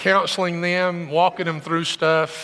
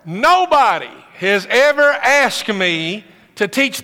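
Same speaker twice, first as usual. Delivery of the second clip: laughing, higher and louder; laughing disbelief; 4 semitones higher, 5 dB louder, slower than usual. Real, not acted. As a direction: laugh through the astonishment.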